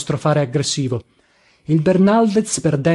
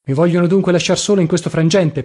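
ordinary delivery, nothing marked

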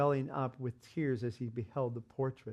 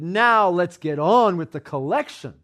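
louder, demanding shout; impatient shout; 3 semitones higher, 9 dB louder than usual. A narrator's reading. Impatient buyer shouts from the second row, louder. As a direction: hurry the auction along. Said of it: "The man sitting on the second row shouted".

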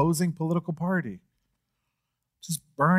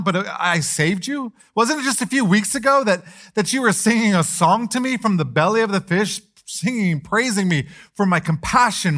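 a hint of God's rebuke; 4 semitones higher than usual. God rebuking Jonah, voiced.

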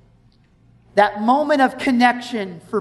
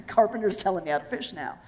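Peter; 6 dB quieter than usual. Acted. Peter privately doubting a carpenter's fishing advice, skeptical aside. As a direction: grumble it quietly to yourself. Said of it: "a little bit of Peter is going".

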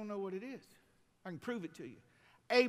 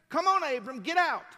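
God calling Abram; 9 semitones higher, 12 dB louder than usual. Acted.

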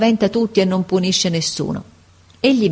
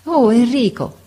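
a fond, raised cry of greeting; affectionate exclamation; 7 semitones higher, 3 dB louder than usual. A narrator's reading. Sick teacher greeting his pupil Enrico, affectionate. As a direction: greet the boy with gentle affection. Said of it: "esclamò con la sua voce affettuosa".

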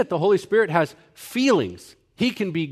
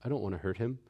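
mock agreeing murmur; 4 semitones lower, 9 dB quieter, faster than usual. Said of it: "And I would say".

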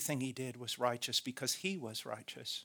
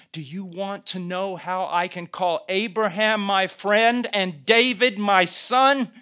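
God from the throne; 8 dB louder than usual. Acted. God answers the accusers at his throne, building to thunder. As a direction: start restrained, then thunder the last question. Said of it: "He calls them to the throne and he goes".

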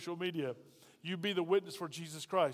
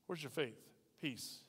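much softer and lower, firm; calm hushed command; 4 semitones lower, 10 dB quieter than usual. Acted. Jesus answering the frightened disciples, much softer and lower. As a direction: still the storm with a hushed word.

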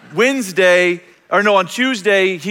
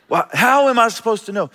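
indignant caller; 4 semitones higher than usual. Retold or imitated. Angry caller.

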